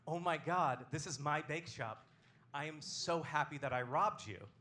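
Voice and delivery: slow, emphatic mock excitement; acted excitement. Robber greets former victim at his bakery, drawn-out mock excitement. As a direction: draw out the delighted greeting. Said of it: "He's so excited".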